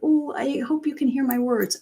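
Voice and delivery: acted hunched-shoulder meekness; timid. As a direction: lightly mimic someone unsure of being heard. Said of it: "Are you hunching your shoulders like".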